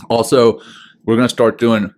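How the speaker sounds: talking through leftover food; words round a bite of breakfast; mouth full. Real, not acted. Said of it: "excuse me, I got something in my mouth".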